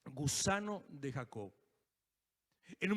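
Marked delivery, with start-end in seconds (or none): 0.1-1.5 softer and lower, drawn out; hushed slow echo. Shown as a demonstration. Preacher repeats God's word to himself, hushed and slow. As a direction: let it sink in almost under the breath. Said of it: "Dios me habló de esa palabra".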